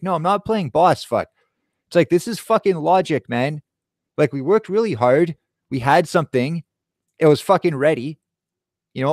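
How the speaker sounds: indignant venting at dad; still mad. Retold or imitated. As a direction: replay the argument with real exasperation. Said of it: "I'm still mad about that".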